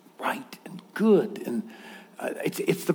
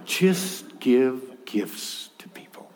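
hushed; 5 semitones lower, 4 dB quieter, much slower than usual. Real, not acted. Gentle closing advice.

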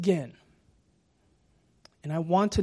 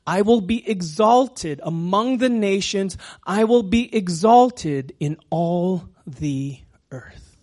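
proclaimed scripture; 6 dB louder, slower than usual. Acted. Reading scripture as God's words.

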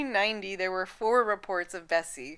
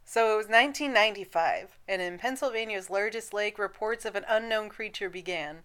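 radio announcer. Real, not acted. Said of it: "Why do you suddenly sound like a radio announcer?".

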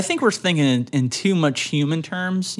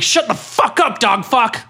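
higher, hammed-up rude yell; mock angry cow; 7 semitones higher, 3 dB louder than usual. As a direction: snarl it like a furious cartoon cow. Cow yells at dog.

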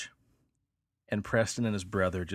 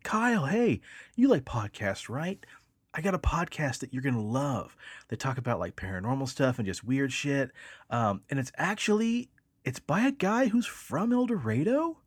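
eager podcast pitch; 5 semitones higher than usual. Retold or imitated. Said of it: "he's like".

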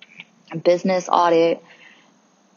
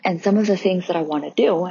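yawning. Real, not acted. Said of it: "And I'm yawning right now".

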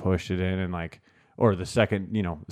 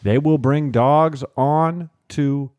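slow, raised, deliberate official voice; mock border officer laying down rules; stern official warning; 3 semitones higher, 4 dB louder, slower than usual. Imitating officers warning students at the border, slow stern voice.

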